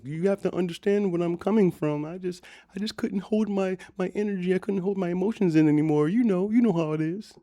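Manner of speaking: high mock sob-story, fishing for sympathy; mocking her plea. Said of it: "her trying to be comfortable with another white woman".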